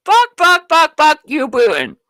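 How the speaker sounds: imitating the singer's outburst, loud; mock angry swearing. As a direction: spit out the curses like she did. Mimicking singer swearing at Putin.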